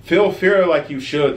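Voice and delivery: loud, slow villain shout; mad scientist shout. Acted. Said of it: "the mad scientist shouted".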